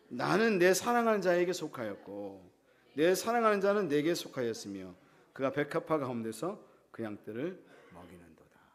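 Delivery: measured formal Bible reading; scripture reading. Acted. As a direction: lead the congregation through the verse, sinking low at the end. Reads scripture aloud.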